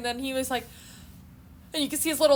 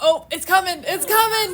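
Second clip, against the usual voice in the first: high, louder, eager anticipation; excited; 7 semitones higher, 7 dB louder than usual. Retold or imitated. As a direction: build suspense gleefully. Anticipating a loud sneeze.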